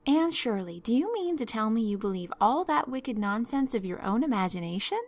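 loud, emphatic guardian's rebuke; stern disbelief. Acted. Marilla rebukes Anne for believing her own inventions, stern. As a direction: demand an answer, scandalised.

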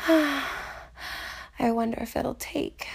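breathy afterglow whisper. Acted. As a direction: whisper it close and soft.

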